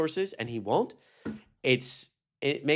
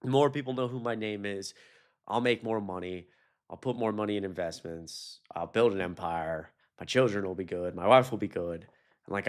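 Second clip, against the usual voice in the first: a mild impression of a cold, calculating mogul; voicing a smug businessman; 3 semitones lower than usual. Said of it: "he's like".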